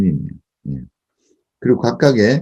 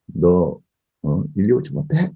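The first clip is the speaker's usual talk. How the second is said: mildly raised mom's voice; slower than usual. Retold or imitated. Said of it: "이렇게 언성을 높이고".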